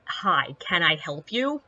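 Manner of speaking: low, flat "Hi, can I help you?" with no sweetness; flat firm. Retold or imitated. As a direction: say it level to a man glaring at you. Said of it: "and I'm like".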